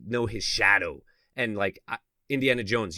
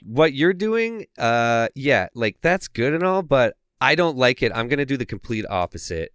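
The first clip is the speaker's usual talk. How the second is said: loud, higher mock putdown; imitating the girlfriend; 4 semitones higher, 6 dB louder than usual. Girlfriend dismissing her boyfriend's comic art, mock-condescending. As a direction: play her lightly as a dismissive critic. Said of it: "She's like".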